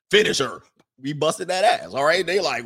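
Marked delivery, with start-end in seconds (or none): 0.1-0.6 louder Mortal Kombat call; game announcer. Retold or imitated. Playing Mortal Kombat with sisters, mock announcer call. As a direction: boom it like the game's announcer.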